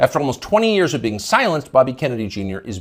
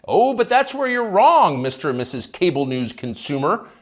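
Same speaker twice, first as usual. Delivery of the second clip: mock sarcasm; 6 semitones higher than usual. Sarcastic rebuttal to imaginary viewers.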